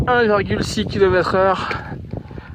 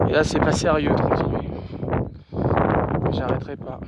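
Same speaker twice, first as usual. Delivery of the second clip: winded, struggling for air; out of breath. Real, not acted. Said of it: "j'arrive pas à respirer".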